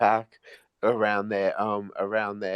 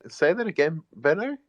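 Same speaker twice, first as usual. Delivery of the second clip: eager request; 8 semitones higher, 4 dB louder than usual. Real, not acted. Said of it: "asks for a repeat".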